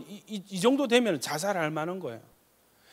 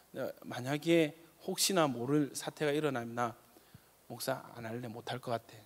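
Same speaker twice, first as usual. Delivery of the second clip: hushed pastor telling his wife he'll quit; quiet confession; 4 semitones lower, 8 dB quieter than usual. Retold or imitated. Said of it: "우리 사모랑 상의가 다 됐었습니다".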